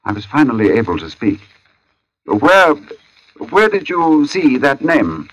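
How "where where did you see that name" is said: shaken. Acted. Shaken man finally able to speak.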